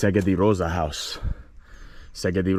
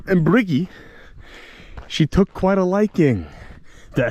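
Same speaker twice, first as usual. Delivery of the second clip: high and loud, gossiping with glee; hammed-up storyteller; 11 semitones higher, 4 dB louder than usual. Vlogger telling viewers the legend, hammed-up and gleeful. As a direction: spill the village legend like juicy gossip.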